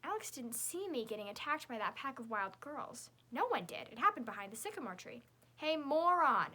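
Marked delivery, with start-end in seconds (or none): 5.6-6.5 loud jeering holler; rough schoolyard yell. A narrator's reading. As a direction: call him out again. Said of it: "Alex hollers again".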